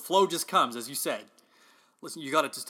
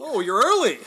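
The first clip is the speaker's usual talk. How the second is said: surprised laugh, higher and louder; 7 semitones higher, 8 dB louder than usual. Real, not acted. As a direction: blurt it out through a laugh. Surprised laugh at Lucy's arrival.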